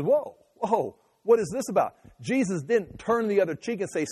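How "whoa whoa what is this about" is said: higher-pitched acted protest; mock-startled challenge, pitched up; startled objection. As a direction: stop them short and demand a reason. Acting Jesus objecting to being slapped.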